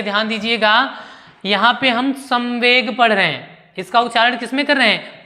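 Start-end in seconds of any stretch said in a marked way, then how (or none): 2.1-3.0 संवेग with the dot sounded as म; nasal as म. Shown as a demonstration. Teacher showing how it is read, संवेग with an m sound. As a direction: say संवेग as 'samveg', an m before व. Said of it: "म में".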